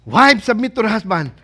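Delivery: loud, hammed-up command; husband's relishing reading. Husband finding the verse on wives submitting, relishing it. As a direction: proclaim it as the husband's favourite verse. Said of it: "your husband also has black marker".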